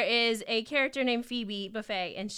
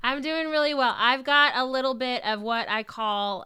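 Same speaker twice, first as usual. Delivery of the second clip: stuffy, nasal voice from a cold; nasal sick voice; 3 semitones higher, 6 dB louder than usual. Real, not acted. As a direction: talk through a nasal, sick-sounding voice. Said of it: "nasally voice right now".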